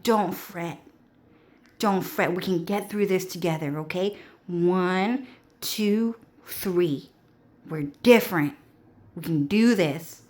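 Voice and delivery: soft, soothing pep talk; mock reassuring. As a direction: comfort someone quietly, playing it up. Acted reassurance of one another.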